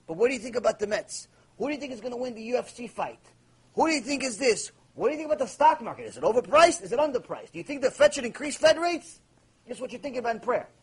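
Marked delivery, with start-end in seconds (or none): 0.1-9.2 breezy rapid-fire small talk; fast, casual chatter. Retold or imitated. A worshipper chattering to God about sports and stocks, fast. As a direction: rattle off trivial questions quickly.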